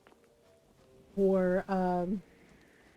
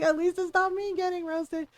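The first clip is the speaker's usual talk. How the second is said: pitched up, stressing not; higher repeat; 6 semitones higher than usual. Retold or imitated. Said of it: "I was like".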